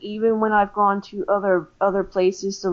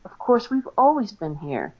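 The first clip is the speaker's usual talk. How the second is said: imitated smarty-pants reply; lightly mocking know-it-all answer; 3 semitones higher than usual. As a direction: answer like it's obvious, a touch smug. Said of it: "smarty pants was saying".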